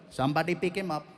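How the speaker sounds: put-on casual remark in an Indian accent; Indian bystander. Bystanders in India react to body.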